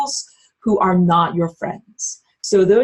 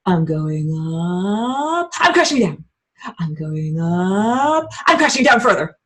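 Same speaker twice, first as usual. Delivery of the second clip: slow drawn-out rise on "up"; rising slowly; slower than usual. Shown as a demonstration. Demonstrating a bad energy curve, slow rising drawl. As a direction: stretch "I'm going up" slowly upward. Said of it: "not supposed to go like".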